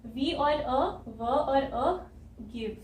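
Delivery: "व और अ" drawn out, each sound held long; slow phonics blending. Shown as a demonstration. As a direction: stretch each sound apart. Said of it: "तो जी की sound आ गई ग".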